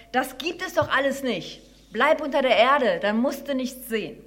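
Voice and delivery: mildly gruff, emphatic dismissal; dismissive mole. Acted. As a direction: shut the silly mouse down firmly. Mole dismisses the mouse's talk.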